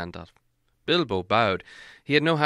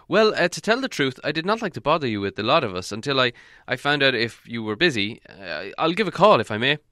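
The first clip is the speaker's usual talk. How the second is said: a lightly voiced old wizard, hedging; fumbling for words, a touch faster; hesitant wizard; 3 semitones higher, 4 dB louder than usual. Gandalf coaxing Beorn, lightly voiced and hesitant.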